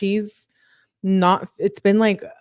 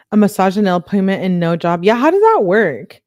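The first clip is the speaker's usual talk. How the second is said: sarcastic outburst; 7 dB louder than usual. Real, not acted. Mocking the texter's spending.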